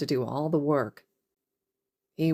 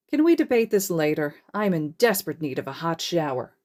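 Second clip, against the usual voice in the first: weary plea; 3 dB louder than usual. Acted. Hizashi tired, wants shower.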